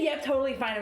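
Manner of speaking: mocking imitation. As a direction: parrot it back, teasing. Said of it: "if you say".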